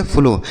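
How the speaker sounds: "फ्लो" ending in a long o; ow read as o. Shown as a demonstration. Teacher shows the exception, "फ्लो" ending in o. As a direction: model "फ्लो" with o, avoiding au. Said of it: "इसे पढ़ेंगे".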